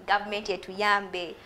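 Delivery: slow imitated plea to the government; lightly voiced plea, slow; national outcry. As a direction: mimic a public cry for help, slowly. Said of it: "those national outcries".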